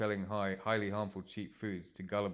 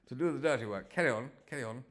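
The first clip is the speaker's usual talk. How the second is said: posh English, pitched up; posh accent; 5 semitones higher, 4 dB louder than usual. Acted. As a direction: give orders in a high posh accent. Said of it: "Why has he got a posh accent now?".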